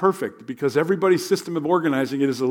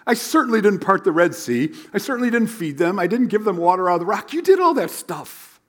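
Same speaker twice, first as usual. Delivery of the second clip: insistent Moses; 4 semitones higher, 3 dB louder than usual. Retold or imitated. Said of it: "Moses is saying".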